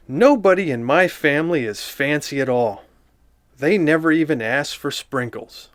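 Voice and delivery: lightly voiced prim little girl showing off; girly Nancy voice. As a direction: read it like a proud, fancy little girl. Reads the book as Nancy.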